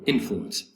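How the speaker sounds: "influence" stressed on IN; first-syllable stress. Shown as a demonstration. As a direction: hit the opening syllable of "influence". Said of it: "first syllable".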